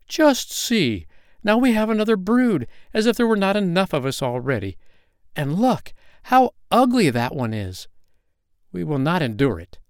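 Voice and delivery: the yard ducks mocking the ugly duckling; jeering ducks. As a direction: sneer at the new brood. Yard ducks jeer at newcomers.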